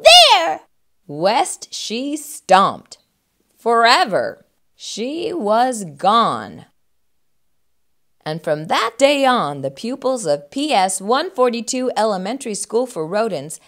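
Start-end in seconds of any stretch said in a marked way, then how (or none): 0.0-0.7 high, loud parting shot; petulant shouted retort; defiant. Acted. 1.1-10.5 measured storybook ending; expressive picture-book narrator; children's story narration. A narrator's reading.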